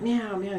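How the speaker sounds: two quick mimicked meows; imitated cat meow. Cat interrupting the voice, imitated meowing. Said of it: "And then my cat".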